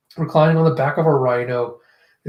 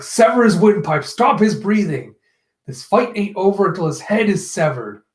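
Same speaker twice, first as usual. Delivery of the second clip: higher, forceful retold order; raised, commanding villain voice; villain's command; 4 semitones higher than usual. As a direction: order the kill with emphatic force.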